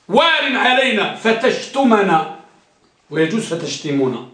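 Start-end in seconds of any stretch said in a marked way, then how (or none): 0.1-2.4 slow, stress on وال; slow example. Shown as a demonstration. Teacher giving the simile example slowly. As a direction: draw out وال. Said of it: "التشبيه".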